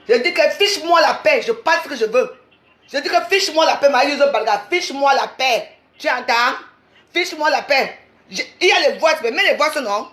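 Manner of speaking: fed up, hammer out each repeated demand; real heated quarrel voice; angry telling-off. Real, not acted.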